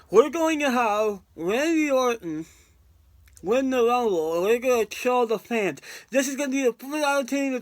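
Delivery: lightly voiced scheming producer; a hint of a producer gleefully plotting; bad Kevin Dunn impression. Vlogger mocks the producer plotting to troll fans, lightly voiced scheming impression. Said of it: "I'm doing a bad Kevin Dunn impression".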